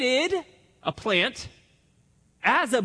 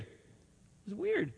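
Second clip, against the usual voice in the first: "weird" said much softer and slowly, drawn out; quiet slow repeat; 10 dB quieter, much slower than usual. Shown as a demonstration. Preacher repeating It was weird to the congregation, hushed and slow. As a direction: let It was weird fade to a slow hush.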